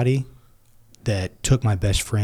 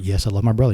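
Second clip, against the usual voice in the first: every word set down with care, even and firm; deliberate; faster than usual. Retold or imitated. Kid answering father with firm, deliberate yes. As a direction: say it like a kid vowing before his dad. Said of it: "I couldn't be more deliberate".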